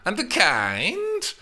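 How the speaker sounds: slow, high, loud drawn-out praise; stretched-out words. A narrator's reading. Nurse stretches out words to tease Juliet. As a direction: stretch every word. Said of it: "stretched out the words".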